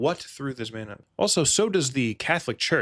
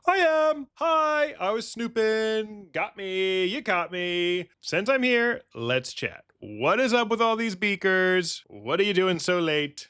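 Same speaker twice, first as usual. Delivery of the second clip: high, friendly mock-casual Batman; chatty Batman; 6 semitones higher, slower than usual. Caught Batman chatting up the scientist, high and friendly. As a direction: breezily confess to snooping. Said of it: "Batman's just like".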